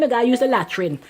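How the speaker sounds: imitating a Guyanese child's accent. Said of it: "We had guy in an accent".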